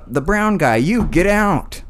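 high, slow dog command; talking dog voice. Retold or imitated. Dog button voice, slur.

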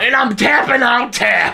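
high goofy tree voice; silly tree voice. Pretend. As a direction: play a silly tapping tree. Voicing the tappy tree.

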